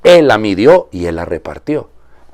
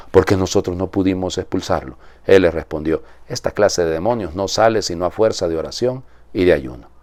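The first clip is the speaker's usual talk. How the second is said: measured liturgical reading voice; solemn Gospel reading. Acted. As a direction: proclaim the Gospel to the congregation. Priest reads the Gospel aloud.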